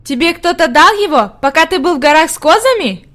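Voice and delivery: put-on high, astonished little-girl question; surprised child, pitch lifted. A narrator's reading. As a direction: ask in childlike amazement. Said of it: "удивлённо спросила она".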